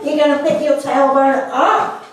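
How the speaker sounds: ordinary talk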